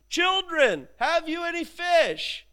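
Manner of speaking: high, drawn-out call across water. Acted. Jesus on shore to fishermen in boat, calling out. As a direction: hail them from far off, slow and high. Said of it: "they shout back".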